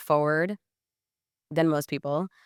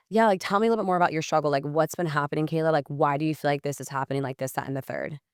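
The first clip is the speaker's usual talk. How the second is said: empathetic; faster than usual. Shown as a demonstration. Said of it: "You can hear my tone, like, I'm actually empathetic".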